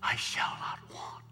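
from the heart. Retold or imitated. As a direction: say it gently, like a prayer. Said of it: "from his heart".

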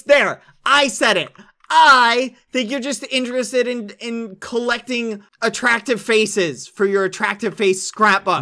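loud, heated accusing; loud accusation. Acted. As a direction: accuse them loudly. Mock accusation.

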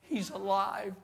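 giggling excitement. Acted. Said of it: "kind of giggling among themselves".

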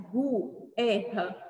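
"gu, erra" split apart with the U sounded; separado errado. Shown as a demonstration. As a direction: say "gu", pause, then "erra". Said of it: "Que palavra é essa?". ("gu, erra" separado, pronunciando o U)

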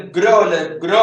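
ഗ്രോ punched out as the stressed syllable; stress on GRO. Shown as a demonstration. Teacher marking the stressed part of grocery, stress on ഗ്രോ. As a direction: hit ഗ്രോ firmly. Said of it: "ആ ഭാഗമാണ് stress ചെയ്യുന്നത്".

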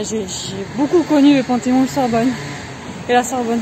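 panting after climbing stairs; breathless, gasping between words; out of breath. Real, not acted. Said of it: "Je suis essoufflée".

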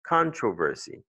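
"controversy" stressed as CON-troversy; stress on first syllable. Shown as a demonstration. Teacher showing where the accent falls, first-syllable stress. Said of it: "L'accent, c'est ici, sur le mot".

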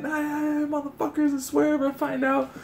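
strained high imitation of hollering; retold yelling. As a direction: imitate an angry dad's threats from afar. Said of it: "I see this fool yelling".

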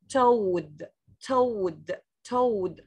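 "toad" with a clear, drawn-out O; careful teacher's "toad", full O in the middle; pronunciation demo. Shown as a demonstration. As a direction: model "toad" word by word, falling each time. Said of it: "This is how to pronounce it".

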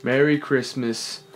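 song lyrics recited as solemn verse; mock poetry reading. Host reads a pop Christmas song as great poetry, mock-earnest recital. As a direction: recite it line by line with theatrical pauses. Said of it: "to do another poetry reading".

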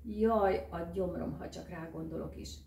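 loud moan of stomach pain. Acted. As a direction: groan out the jaj loudly. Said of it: "nyögte Miska". (Miska nyög a gyomrára, hangos jajjal)

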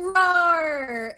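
loud playful roar; dinosaur roar. Retold or imitated. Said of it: "'cause I was going".

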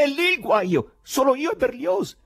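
high, loud and worked up; agitated dialogue. A narrator's reading. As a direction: blurt it out in rising agitation. Ivan excitedly answers doctor's question.

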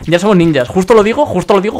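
loud, thrilled shout of delight; excited. Real, not acted. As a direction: cheer as the ability pops up. Ability appears just as he says it.

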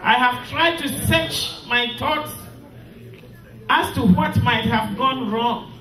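solemn graveside address; mournful eulogy. Acted. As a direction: speak each line of farewell with heavy sorrow. Widow reads eulogy to husband.

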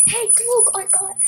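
high, eager bragging; excited. Retold or imitated. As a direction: show off the new find. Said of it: "and I'm like".

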